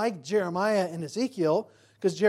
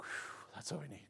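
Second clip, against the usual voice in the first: whispered awe; 15 dB quieter than usual. Retold or imitated. Speaker's admiring reaction retold.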